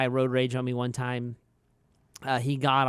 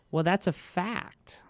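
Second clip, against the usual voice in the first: whispered aside; 4 semitones higher, slower than usual. Real, not acted. Boss conceding the employee's point in a whisper.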